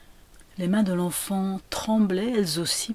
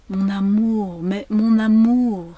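loud, rising, drawn-out endearment; celebrating her love; 3 semitones higher, 7 dB louder, slower than usual. A narrator's reading. Woman over her dead lover, celebrating. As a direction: proclaim the love, stretching the words. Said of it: "célébrait toujours la femme".

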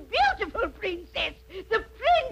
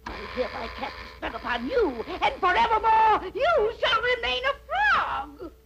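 witch curse; 3 semitones higher than usual. Acted. Witch hurling a frog curse, rising to a shout. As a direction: build the spell up to a shouted finish. Witch casting second spell.

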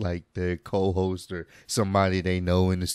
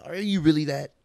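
higher-pitched mock doubt; passive-aggressive tone; 6 semitones higher, 3 dB louder than usual. Host imitates air-quoting interviewer, mock passive-aggressive doubt. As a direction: put air quotes round the question, mockingly. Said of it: "you give it a little bit of a tone".

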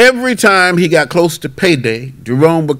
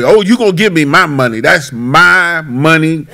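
retold anger; 2 semitones higher than usual. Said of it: "he would get angry".

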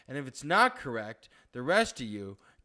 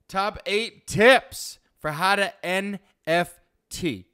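announcer voice; 4 semitones higher, 5 dB louder, slower than usual. Acted. Announcer-style title.

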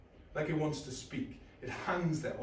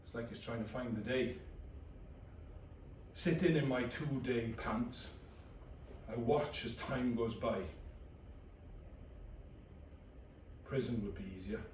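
flat depressed narration. Acted. Low depressed inner narration.

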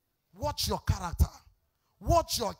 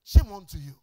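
louder rebuke; 4 semitones lower, 7 dB louder than usual. Acted. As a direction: shame unto you hit harder and louder. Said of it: "repeats rebuke louder".

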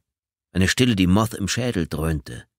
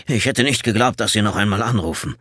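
tense, irritated, controlled; 2 semitones higher than usual. Acted. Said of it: "Gereizte, mühsam beherrschte, äußerst angespannte Stimme".

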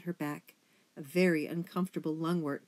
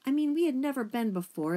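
higher, hesitant, upset account; stammering; 6 semitones higher, 4 dB louder than usual. A narrator's reading. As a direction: stammer through a painful confession.

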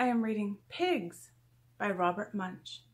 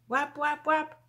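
high sound words; 6 semitones higher than usual. A narrator's reading. Imitating pigs' noise in story.

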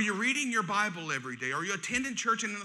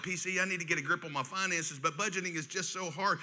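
softer, lower whining member; mock complaint; 3 semitones lower, 5 dB quieter than usual. Church member complaining to pastor, soft and low. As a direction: imitate a frustrated church member lightly.

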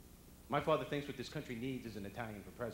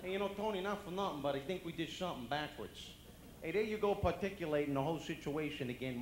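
lightly played Brooklyn cop; 4 semitones higher than usual. Brooklyn cop chatting to his partner, mildly hammed-up. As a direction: put on a slightly raised Brooklyn cop voice. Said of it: "You ever see a Brooklyn cop?".

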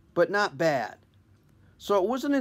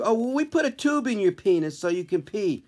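put-on higher, breezy young doctor; chirpy kid doctor, lightly; young intern voice; 5 semitones higher than usual. Intern answering about complications, higher chirpy voice.

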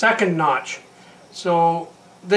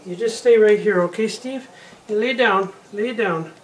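soothing a nervous cat; 4 semitones higher than usual. Real, not acted. Calming his nervous cat Steve.

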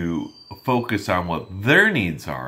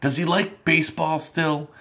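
friendly chatty. Shown as a demonstration. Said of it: "you could say".

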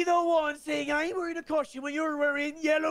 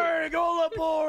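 pirate shout; 3 semitones higher, slower than usual. Acted. Pirate shouts crew aboard.

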